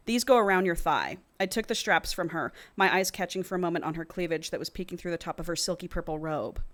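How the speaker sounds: measured audiobook-style reading; story narration. A narrator's reading. Co-host reads a romance novel to the other, measured narration. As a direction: read the passage aloud evenly.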